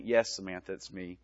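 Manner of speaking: reassuring dad. Retold or imitated. Father telling his scared daughter it's him, low and reassuring. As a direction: drop into a low, soothing fatherly voice. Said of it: "he talked in his own voice".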